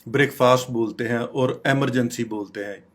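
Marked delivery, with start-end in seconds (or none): 0.1-0.7 "ब्रेकफास्ट" said BRAKE-faast; common mispronunciation. Shown as a demonstration. Teacher quoting the wrong everyday form, "ब्रेकफास्ट" as BRAKE-faast. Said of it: "ये सब गलत बोलते हैं". 1.7-2.2 "इमरजेंसी" said EM-er-jen-see; common mispronunciation. Shown as a demonstration. Teacher quoting the wrong everyday form, "इमरजेंसी" as EM-er-jen-see. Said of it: "ये सब गलत बोलते हैं".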